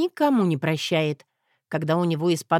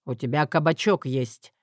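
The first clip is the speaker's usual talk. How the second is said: mild bark; 5 semitones lower than usual. Acted. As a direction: lower gruff retort. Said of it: "рявкнул Тим".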